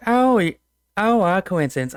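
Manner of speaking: lightly voiced gushing hostess; a touch of doting lady; pleased Southern belle. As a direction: start high with a delighted oh. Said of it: "Southern Belle dresses".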